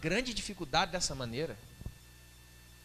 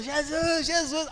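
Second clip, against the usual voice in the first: calling out; 8 semitones higher, slower than usual. Retold or imitated. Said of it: "ela vem gritando".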